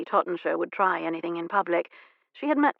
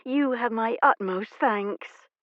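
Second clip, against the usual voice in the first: demure; 4 semitones higher, slower than usual. Acted. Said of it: "she said demurely".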